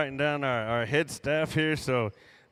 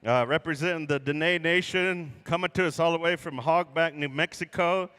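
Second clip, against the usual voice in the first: powwow emcee. Real, not acted. Emcee introduces head gourd dancer.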